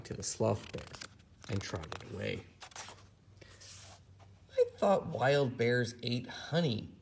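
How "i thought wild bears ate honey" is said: a touch of sadness. Acted. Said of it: "said Teddy Bear sadly".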